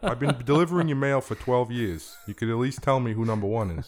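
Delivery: hammed-up Bronx accent, aggrieved; Italian Bronx mailman. Mailman pleading with a longtime customer, Bronx accent. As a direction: put on an Italian-American Bronx voice. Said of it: "He's an Italian Bronx guy".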